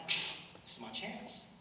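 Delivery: slow, whispered resolve; inner thought whispered. Retold or imitated. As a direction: breathe it out slowly as a secret thought. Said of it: "And I'm like".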